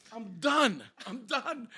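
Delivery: high, loud mock doom; re-enacted despair. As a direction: wail it like you know you're caught. Realizes he is caught by police.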